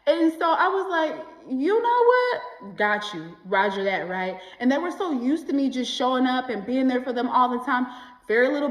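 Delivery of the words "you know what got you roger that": mock agreeable. Sarcastic reply to dismissive friends.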